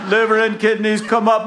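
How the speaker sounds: high, loud comic holler; yelling down. Acted. Jack yelling to the fallen package, high holler. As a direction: yell it high down to the water. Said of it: "So he yells down".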